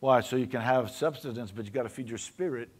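steady sermon cadence; preaching. Acted. Pastor exhorts his church, steady preaching voice. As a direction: preach it to the pews, measured.

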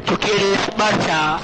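deep pitch shifted. Pretend. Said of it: "ponga la voz distorsionada".

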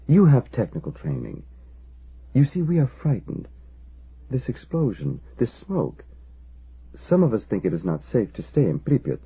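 lightly voiced timid storekeeper, rising with worry; diffident storekeeper. Storekeeper begging the engineer for answers, mildly frightened. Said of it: "he began diffidently".

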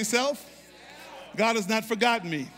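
shouted response; congregation call-back. Shown as a demonstration. Pastor leads the church in a shouted reply. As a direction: call it out to yourself. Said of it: "point to yourself, say".

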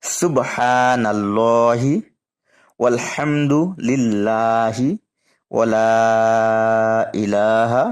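careful melodic recitation; beautiful recitation. Shown as a demonstration. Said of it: "খুব সুন্দর করে পড়ছি". (খুব সুন্দর করে তিলাওয়াত)

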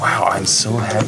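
slow, measured mock-excited ASMR voice; excited ASMR imitation. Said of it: "excited while you do it".

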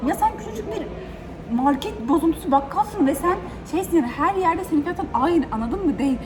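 high, fed-up rant at the shopkeeper; exasperated rant. Real, not acted. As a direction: vent the anger, voice climbing. Venting at the shopkeeper. (bakkala sinirli sitem)

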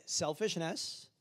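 slow, spaced Selfishness is unacceptable; slow call and response. Shown as a demonstration. Pastor leading congregation to repeat, slow. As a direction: model it for them to repeat. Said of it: "Look at your neighbor and say".

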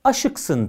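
"aşıksın" with the first A clipped short; shortened vowel. Shown as a demonstration. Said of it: "A'yı kısaltarak".

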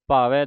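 "ਭਾਵੈ" ending in an open ai. Shown as a demonstration. Teacher points out dulavan, open ending on "ਭਾਵੈ". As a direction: say "ਭਾਵੈ" as bhaa-vai. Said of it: "ਦਲਾਵਾਂ ਲੱਗੀਆਂ".

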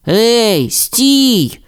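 high anxious call after friend; call out stop. A narrator's reading. Rasmus calls after Timmi, high and urgent. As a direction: stop him before he runs off. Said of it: "крикнув Расмус".

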